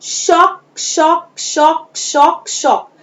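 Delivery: शॉक repeated, starting high and falling; five-times drill. Shown as a demonstration. Teacher models the repetition homework, high then falling. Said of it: "मैं बोल के बताती हूँ".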